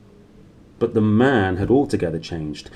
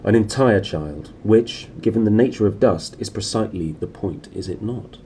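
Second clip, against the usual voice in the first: calmly. Acted. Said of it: "Lord Asriel said calmly".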